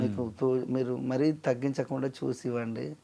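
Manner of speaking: mildly deferential, hesitant negotiation; polite request. Acted. Musician asking a producer for fair pay, politely. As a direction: ask respectfully, pausing to choose words. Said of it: "అని మర్యాదగా చెప్తే".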